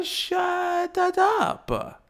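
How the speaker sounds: very high, drawn-out mock outburst; comic high-pitched exasperation; exaggerated dismissal. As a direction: stretch it out slowly, way up high.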